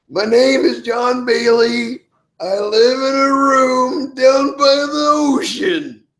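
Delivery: shouty, high, very slow declamation, "room" drawn out. Between interview questions, the speaker does a Matt Foley impression. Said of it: "My best Matt Foley".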